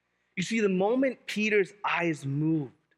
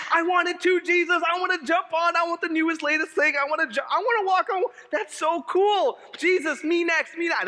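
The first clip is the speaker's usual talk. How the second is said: much higher and louder, eager begging; eager kid; 9 semitones higher, 4 dB louder than usual. Retold or imitated. Pastor playing himself begging Jesus for a turn: high, loud, eager. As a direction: beg like a kid who wants the newest toy. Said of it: "Because I'm like".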